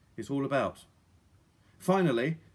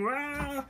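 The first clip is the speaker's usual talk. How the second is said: high whooshing "rah"; 11 semitones higher, 3 dB quieter than usual. A narrator's reading. Noise of the thrown net.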